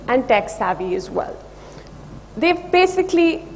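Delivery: nervous voice with a slight tremble; steady voice with shaky moments. Real, not acted. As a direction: pitch nerves showing, voice wavers. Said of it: "Sorry, my voice is shaking".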